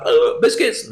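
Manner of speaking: a breathy, hopeful dog begging for biscuits; lightly voiced pet. Dog begging its owner for biscuits, lightly voiced.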